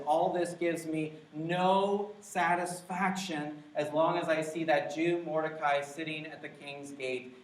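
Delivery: voicing prideful Haman. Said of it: "A heart of foolish pride says".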